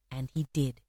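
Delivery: low, soft aside; understated confirmation. A narrator's reading. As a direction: drop the voice and state it simply. Quiet statement before emphatic repeat.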